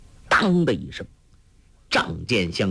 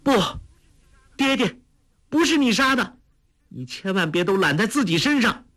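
put-on much higher young woman's voice, urgent; a daughter begging her father; girl crying out; 12 semitones higher, faster than usual. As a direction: daughter pleading with her father to stop taking blame. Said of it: "忽听一个女子声音叫道".

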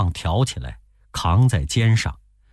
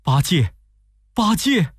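a second call rising higher; 9 semitones higher than usual. A narrator's reading. The master calls out to Pigsy, rising call. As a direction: call his name across the ravine. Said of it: "唐僧高声叫着".

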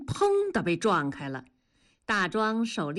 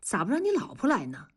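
quick, mildly puzzled question; faster than usual. Acted. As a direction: ask as if you can't work it out. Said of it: "纳闷儿地问". (纳闷儿地问)

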